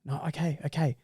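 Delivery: mock mum quietly relenting; softly caving to a nagging child; giving in. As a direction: start firm, then fade into soft okays.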